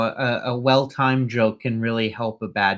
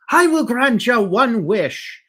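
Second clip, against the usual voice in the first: grandly granting a wish; 10 semitones higher, 4 dB louder, slower than usual. Acted. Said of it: "a leprechaun walks up and says".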